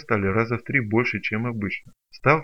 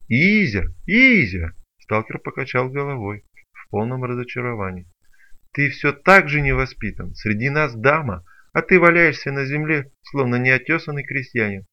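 mock scolding; 3 semitones higher, 5 dB louder than usual. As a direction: scold him like a fussy tutor. Hunter scolding mockingly. (насмешливый упрёк, громко)

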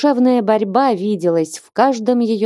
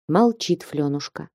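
ordinary delivery

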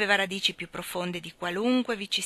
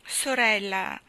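anxious interruption; slower than usual. Acted. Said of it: "interruppe missus Tulliver con inquietudine".

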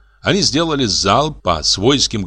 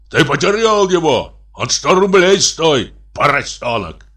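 raised, scolding general's voice; thunderous general; 6 semitones higher than usual. A narrator's reading. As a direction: scold the youngster as an outraged general. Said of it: "громовой голос генерала". (сердитый, громкий голос генерала)

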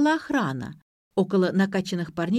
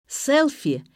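joyful shout; 8 semitones higher, 4 dB louder than usual. A narrator's reading. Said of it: "радостно закричав".

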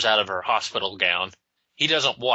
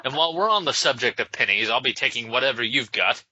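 put-on Irish accent. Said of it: "sounds like a goddamn leprechaun".

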